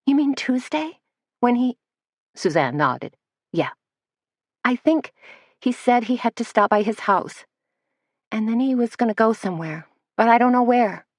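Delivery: put-on a rattled young assistant correcting herself; flustered young Missy.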